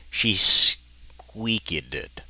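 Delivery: very slow, loud squeaky line; drawn-out squeal. Real, not acted. Reader squeals out the narration, slow and loud. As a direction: stretch it into a squeak.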